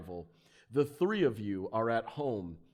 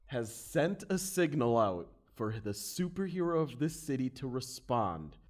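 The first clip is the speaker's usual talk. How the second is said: story narration. Acted. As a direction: set the scene like a comic narrator. Game master sets the scene.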